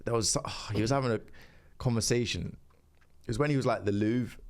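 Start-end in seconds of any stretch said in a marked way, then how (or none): 3.9-4.4 Haaland. Retold or imitated. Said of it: "the Manchester accent".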